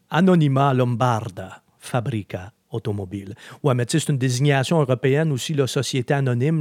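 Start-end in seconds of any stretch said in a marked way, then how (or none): 0.1-3.3 Italian accent. Shown as a demonstration. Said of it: "mon accent, euh, italien".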